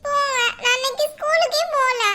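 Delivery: acted child's crying protest; tearful refusal. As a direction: refuse through mock sobs, sulking. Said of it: "அப்புறம் ஏன் அழுவிட்டு இருக்க". (அழுதுகொண்டே அடம்பிடித்தல்)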